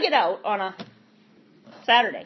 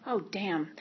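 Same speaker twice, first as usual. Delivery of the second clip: much lower and softer, deflated; 5 semitones lower, 10 dB quieter than usual. Retold or imitated. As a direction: let it drop out of you. Deflated reaction to mother.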